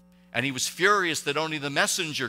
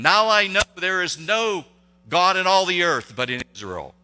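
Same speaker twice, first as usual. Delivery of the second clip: "Now I know there is no God" called out higher and louder; emphatic proclamation; 4 semitones higher, 6 dB louder than usual. Shown as a demonstration. Preacher proclaiming Naaman's confession to the church, loud.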